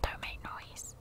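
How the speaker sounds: barely audible voiceless whisper; tiny cautious whisper. Real, not acted. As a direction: whisper it as softly as possible to yourself. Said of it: "I don't know why I'm whispering".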